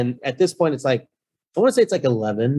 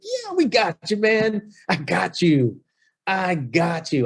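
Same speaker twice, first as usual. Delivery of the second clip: put-on much higher, slurry drunk voice, trailing slowly; drunk reassurance; 7 semitones higher, slower than usual. Drunk locksmith assuring the host, slurred and high. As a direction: promise it's handled while clearly plastered. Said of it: "They are plastered".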